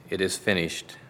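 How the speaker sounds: ordinary delivery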